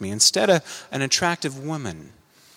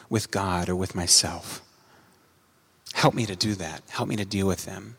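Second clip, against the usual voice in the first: low, softened plea for help; subdued, lower-pitched penitent appeal; earnest apology; 5 semitones lower, 7 dB quieter than usual. Acted. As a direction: confess quietly and ask for help. Models a sincere apology asking for help.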